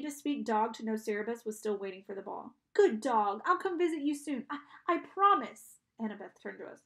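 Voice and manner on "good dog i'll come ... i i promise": high, faltering farewell to a dog; loud but wistful goodbye; melancholy, uncertain promise. A narrator's reading. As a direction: promise with a slowing, hesitant ending. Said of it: "her voice sounded melancholy and uncertain".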